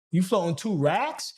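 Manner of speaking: high, pleading mock envy; mock jealous whine. To a viewer floating two racks, a mock jealous whine.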